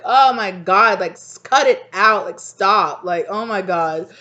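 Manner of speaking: loud, exasperated, a bit slow; scolding a friend who overdid the prank. Pretend. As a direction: roll your eyes and tell them off.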